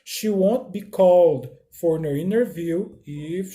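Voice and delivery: slow, deliberate English; slow teacher read-aloud; slow model reading. Shown as a demonstration. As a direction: read slowly for learners. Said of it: "Eu posso falar o seguinte".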